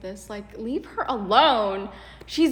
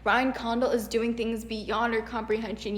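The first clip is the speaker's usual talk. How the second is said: mocking gushing fan; 5 dB louder than usual. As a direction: ham up a fawning fan. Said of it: "They're like".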